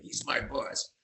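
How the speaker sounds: whispered, half-hearted gruff operator; jukebox operator whisper. Retold or imitated. Repeating George's line to Elton, a whispered gruff operator. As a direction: breathe it like a tough jukebox man. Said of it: "George talked like a jukebox operator".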